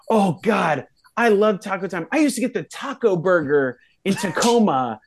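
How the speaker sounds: acted-out delighted enthusiasm; gushing fan. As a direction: gush like a fan remembering a childhood favorite. Retold stranger gushing over Taco Time.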